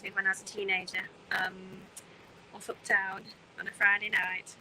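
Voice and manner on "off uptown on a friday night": put-on light northern English accent. Streamer recalling teenage nights uptown, playful northern accent. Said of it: "saying that in a northern accent".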